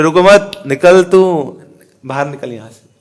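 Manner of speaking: mock hostile order to get out; acted hostile dismissal. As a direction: send them away like someone who resents them. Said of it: "द्वेषी व्यक्ति वो क्या बोलेगा". (द्वेषी जैसा बनावटी तिरस्कार)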